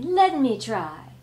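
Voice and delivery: slow, loud mummy demand; insist, creaky and slow; dusty mummy rasp. Acted. Mummy boasting.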